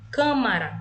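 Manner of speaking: teacher's emphatic "Câmara", first syllable strong; stress on first syllable. Shown as a demonstration. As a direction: hit the opening CÂ of "Câmara". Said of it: "a antepenúltima".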